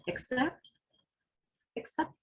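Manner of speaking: hushed. Acted. Sudden hush within poem.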